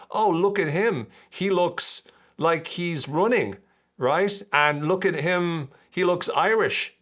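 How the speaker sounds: high, slow gossiping voice; a passerby sneering at the runner; mock onlooker. Jogger voicing gossiping strangers, slowly. Imagined runners mocking him.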